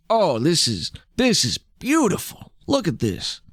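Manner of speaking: confident bluffer cooing over a find; put-on connoisseur's awe; bluffed admiration. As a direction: feign being impressed. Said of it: "he's confident that he can bullshit this".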